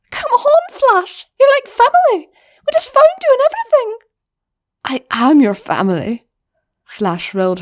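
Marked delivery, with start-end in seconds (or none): 0.1-4.0 very high, loud and fast begging; loud desperate plea to a friend; pleading cry. Acted. Pinion begs Flash to stay. 4.8-6.3 put-on louder, earnest older goblin; Flash's voice. Flash explains her choice.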